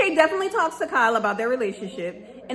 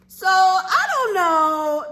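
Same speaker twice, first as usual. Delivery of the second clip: sarcastic shrug; 5 semitones higher, 4 dB louder, much slower than usual. Acted.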